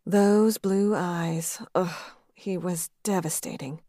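breathy whispered aside; a secret swoon under the breath; whispered inner thought. Acted. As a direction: hush it to herself, slowly.

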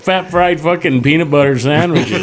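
high, excited hype man; hyped crony voice. Retold or imitated. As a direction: cheer him on like a fawning sidekick. Voicing a singer's cronies.

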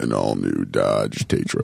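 very low, slow car-commercial voice; mock truck-ad announcer. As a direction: sell it like a deep-voiced truck advert. Mock truck advert after Chevy joke.

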